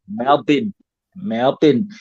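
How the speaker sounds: "Melbourne" clipped to MEL-bn with a short "bn" ending; a Melbournian's quick MEL-bn; local Melbourne way. Shown as a demonstration. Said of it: "us Melbournians, we would just say".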